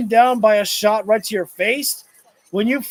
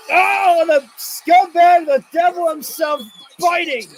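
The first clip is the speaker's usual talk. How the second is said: outraged call; 5 semitones higher than usual. Real, not acted.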